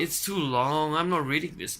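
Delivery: annoyed protest. Real, not acted. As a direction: push back, fed up. Reluctant reader complaining.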